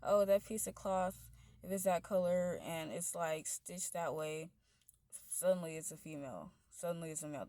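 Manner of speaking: loud, scornful parody of what people say; mocking quote. Mocking people who gender clothing, in a loud scornful voice. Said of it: "I hate when people say".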